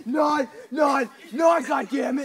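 loud count cracking into a laugh; hammed-up sergeant yell with a laugh; laughing shout. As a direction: yell it but break up laughing.

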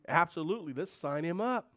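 a loud, eager absolutely; eager yes. Acted. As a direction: snap up the offer, mock-keen. Voicing an eager parent.

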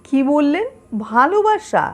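poem performed as a two-person conversation, with measured pauses; dramatic poem recitation. Acted. Newcomer asking a local about old neighbours, dramatic recitation. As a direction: act out the questions and answers, questions lifting in pitch.

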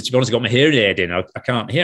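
lightly imitated Lancashire sound man; Lancashire accent. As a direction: slip into a mild Lancashire accent. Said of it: "talked in a sort of Lancashire accent".

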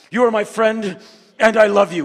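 high, loud, overblown sincerity; mock earnest declaration. Shown as a demonstration. Showing how men can't say it, loud and overblown. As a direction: say it like it's too much. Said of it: "We just can't say".

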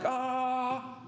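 restrained imitation of a pained yell; mock scream. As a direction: imitate a cry as the arm is pulled. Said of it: "he screamed".

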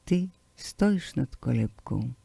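ordinary delivery

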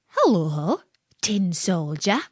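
sly little imp voice, teasing; a naughty imp sneering down at him; giggly sneering imp. Acted. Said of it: "said the imp".

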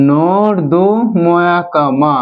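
drawn out syllable by syllable; very slow dictation; slow spelling out. Shown as a demonstration. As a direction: spell it aloud slowly, part by part. Teacher spells the word out.

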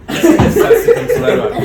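wheezing laugh through the words, slow; can barely speak for laughing. Real, not acted. Arkadaşıyla dalga geçerken kahkaha. (kahkahalar arasında)

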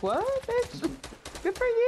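mock sassy voice. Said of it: "I was like".

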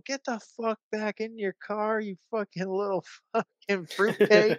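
high-pitched scolding, breaking into laughter; retold angry order. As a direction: order him back in mock outrage, pitch up. Ordering driver back, acted quarrel.

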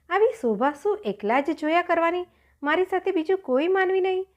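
high-pitched, wistful complaint; lonely lament.

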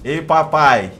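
loud, high excited yell; shrieking jackpot winner. Real, not acted. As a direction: shout with joy at the find. Greets the wrecked M4 loudly. (grito eufórico e agudo)

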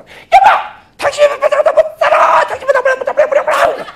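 very high, loud hysterical wail; wailing wife. Acted. 아내가 남편에게 하소연하며 아주 높고 크게 울부짖듯. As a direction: shriek it to her husband in mock outrage.

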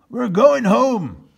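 loud, slow exasperated captain; fed up. Acted. Captain Bill giving up to his men, exasperated. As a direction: grumble it in defeat. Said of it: "said Captain Bill".

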